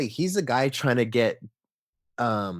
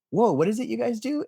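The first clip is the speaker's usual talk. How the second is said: much higher, impressed parent; amazed parent; 12 semitones higher than usual. Retold or imitated. Parents amazed at toy photos.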